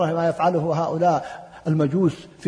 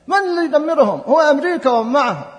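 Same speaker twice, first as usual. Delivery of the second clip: raised, much higher voice, protesting; indignant outcry; 8 semitones higher, 7 dB louder than usual. Real, not acted. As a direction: cry out the question in protest. Rhetorical outcry about destruction. (صيحة استنكار)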